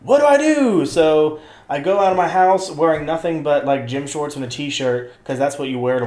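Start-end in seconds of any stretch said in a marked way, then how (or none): 0.0-0.8 high, loud panicked question; squeaky mock panic at night. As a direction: play the stressed self. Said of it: "I'm like".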